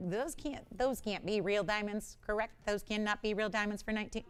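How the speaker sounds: quiet, wondering alien voice; a touch of a lost alien. Pretend. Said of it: "That's my alien voice".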